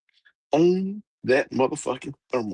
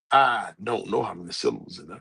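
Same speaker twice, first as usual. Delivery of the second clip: low, deliberate, unashamed declaration; proud admission; 6 semitones lower than usual. Shown as a demonstration. Speaker owning up to not knowing syllables, proudly. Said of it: "happily with my chest out proud".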